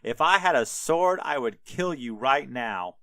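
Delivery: mock-heated tirade at a donkey; hammed-up quarrel with punched words; retold arguing. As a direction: argue back, piling up grievances. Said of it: "having a full-on fight conversation".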